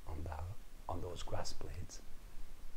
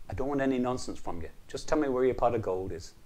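stern demand; 3 semitones higher, 5 dB louder, faster than usual. Acted. Patrick shakes leprechaun.

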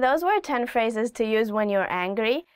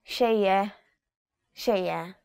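weary dismissal; 3 semitones lower than usual. Shown as a demonstration. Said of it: "you don't even wanna argue about it anymore".

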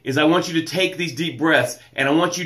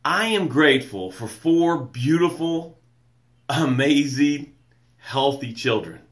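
sincere gratitude; 5 semitones lower than usual. Shown as a demonstration. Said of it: "This is how it should sound".

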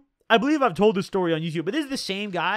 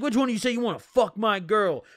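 imitated angry challenge, a little raised; mock mad; 3 semitones higher than usual. Imitating the boyfriend confronting the guys laughing at him, mock mad. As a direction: play the furious boyfriend, lightly hammed-up. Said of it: "He's so mad".

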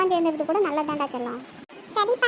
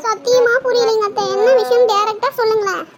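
exasperated pleading; 3 semitones higher, 6 dB louder than usual. Acted. Daughter-in-law asks mother-in-law to speak directly, exasperated. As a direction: plead loudly for a straight answer. Demands a direct answer in quarrel.

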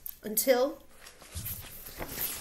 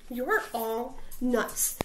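stormed; slower than usual. Acted. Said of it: "Big Bark stormed".

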